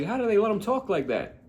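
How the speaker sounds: high comic character voice; Larry David. Acted. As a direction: complain in a high put-on voice. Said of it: "He's like".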